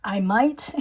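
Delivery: "might" with a light Filipino accent, rising at the end. Real, not acted. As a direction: let a hint of a Filipino accent slip into "might". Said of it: "my Filipino accent comes up sometimes".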